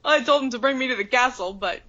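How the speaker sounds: quick, a hint of a wry giant; mildly amused, brushing it off; lightly voiced Hagrid. Hagrid praising Grawp for the rough landing, lightly voiced. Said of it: "it's like".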